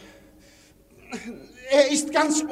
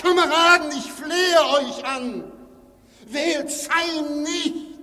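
pleading; 4 semitones higher, slower than usual. Acted. Gregory pleads with the meeting.

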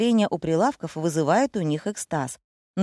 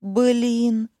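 blurted out; 5 semitones higher than usual. A narrator's reading. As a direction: blurt it out in shock. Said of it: "выпалила".

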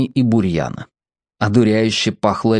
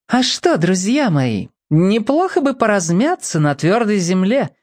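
dreamy; 8 semitones higher than usual. A narrator's reading. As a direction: drift off into a pleasant daydream. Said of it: "мечтательно предложил Бамбала".

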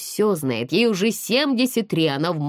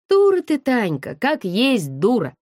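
exasperated scolding; 3 semitones higher than usual. Acted. Friend scolds Tanya, laughing.

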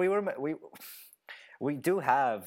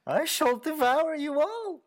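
much higher, louder, slow monstrous roar; dragon voice; 5 dB louder, slower than usual. Pretend. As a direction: bellow it like a hungry dragon. Joking about the 'God of War'.

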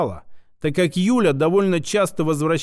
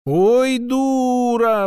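drawn-out dismissive groan; 7 semitones higher, much slower than usual. Acted. Moloko sprawling in the chair, drawn-out exasperated groan. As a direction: drag it out, exasperated. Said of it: "протянуло Молоко".

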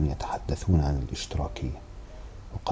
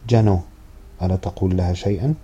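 grandmother calling out; 3 semitones higher, 5 dB louder than usual. Acted. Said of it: "تجهمت له جدته وصاحت به".

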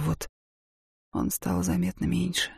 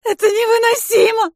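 much higher, louder shout through tears; crying shout; 7 dB louder than usual. Acted. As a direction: scream it through sobs.

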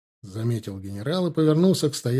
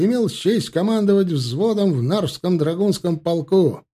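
dashing report; 7 semitones higher, 5 dB louder than usual. A narrator's reading. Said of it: "выкрикнул тот молодцевато".

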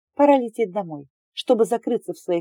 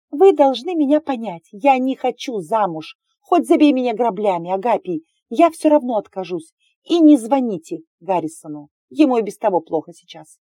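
louder, higher stubborn refusal; defiant outburst; 3 semitones higher, 5 dB louder than usual. Acted. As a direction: stand up to the older brother. Heroine defies her brothers.

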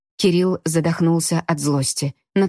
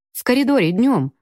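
squeaky voice; 6 semitones higher than usual. Acted. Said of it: "подал писклявый голосок светловолосый".

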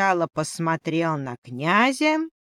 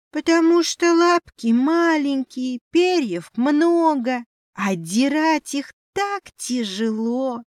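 высокий ноющий голосок зверька; пожаловаться тоненько, с нытьём; жалобный мышонок; 8 semitones higher, 4 dB louder than usual. Acted. Мышь жалуется князю. (жалобный писклявый мышонок)

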